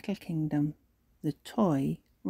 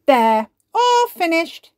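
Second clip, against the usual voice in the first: satisfied; 10 semitones higher, 8 dB louder, slower than usual. Acted. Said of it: "says Ben".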